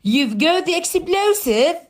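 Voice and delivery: statement words ending on a high rise; rising question tune. Shown as a demonstration. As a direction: lift the end into a question. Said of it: "يعني بمعنى rising intonation".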